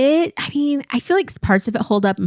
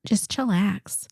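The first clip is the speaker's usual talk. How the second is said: soft, slow whispered chillax; 3 semitones higher, 5 dB quieter, much slower than usual. Pretend. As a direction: breathe out "Just chillax" slowly in a whisper. Slang whispered.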